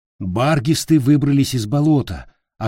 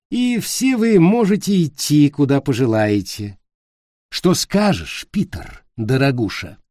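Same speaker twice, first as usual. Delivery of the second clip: femme fatale. Acted. Witch offers a deal.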